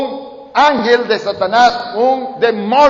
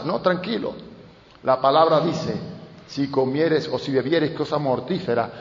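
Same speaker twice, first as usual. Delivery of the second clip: calm and unbothered; 3 semitones lower than usual. Retold or imitated. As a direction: soothe the frightened pastor. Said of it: "calm reply to panicked pastor". (tranquilo y sereno, más bajo)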